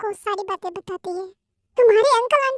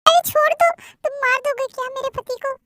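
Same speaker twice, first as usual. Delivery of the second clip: pleading shout; 2 semitones higher, 4 dB louder than usual. Acted. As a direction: beg him to let go. Aunt begs to stop beating. (ज़ोर से गुहार)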